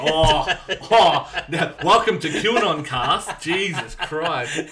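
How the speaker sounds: slow mock announcement, laughing. Real, not acted. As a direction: announce it slowly through a laugh. Laughing slow sarcastic intro.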